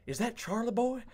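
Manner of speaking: high-pitched mock greeting call; high, questioning imitation of a friend; Gage calling out. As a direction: call out to a friend you've just spotted. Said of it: "I hear Gage go".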